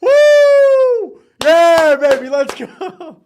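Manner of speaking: high, loud triumphant yell; victory shout. Real, not acted. Streamer celebrating four and oh, loud triumphant yelling. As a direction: crow about the record at full voice.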